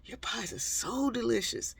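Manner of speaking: high, breathy mock-flattering ooh; brother sweet-talking. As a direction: lay the flattery on thick. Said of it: "he'd stand there and go".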